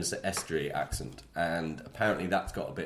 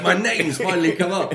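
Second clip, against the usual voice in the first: much higher and louder mock voice; imitating Kerry Stokes; 11 semitones higher, 9 dB louder than usual. Imitating Kerry Stokes hearing himself mentioned. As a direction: squeal it like a pleased billionaire. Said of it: "He was like".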